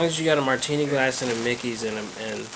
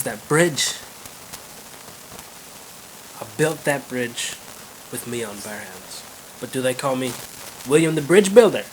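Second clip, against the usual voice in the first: proud Irishman in a put-on brogue; Irish brogue, paused, lifting on the last phrase; Irish accent. William boasts about the bridge he built, Irish accent. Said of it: "there's two Irish guys".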